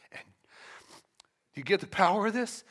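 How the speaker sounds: normal talking voice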